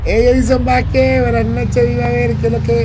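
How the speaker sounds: loud hail to a new teammate on voice chat; calling out. Real, not acted. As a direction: shout a greeting across the lobby. Greeting teammate over voice chat.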